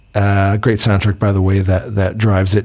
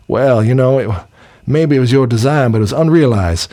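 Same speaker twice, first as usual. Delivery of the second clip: imitating an Englishman's Southern villain accent; 3 semitones higher than usual. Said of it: "He puts on this Southern sort of victim".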